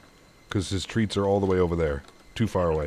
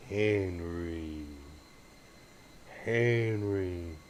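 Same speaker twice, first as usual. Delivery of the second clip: whispering to get the dog's attention; whispered call; 4 semitones lower, 8 dB quieter, much slower than usual. Real, not acted. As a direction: whisper the dog's name, unvoiced. Calling the dog softly.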